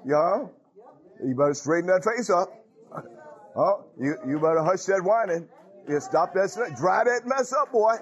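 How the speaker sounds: a hint of a stern father scolding his boy; lightly voiced dad telling off a whining son; mock-stern father, half playful; imitating stern father. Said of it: "he said".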